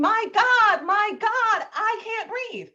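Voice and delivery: high, pleading cry; panicked begging; desperate plea. Retold or imitated. Grandmother begging officer, high and panicked. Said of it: "she's saying".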